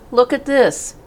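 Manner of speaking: put-on high, eager boy's voice; Avery showing the blue tag, excited. A narrator's reading. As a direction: blurt out the surprise. Avery pointing at rival's tag.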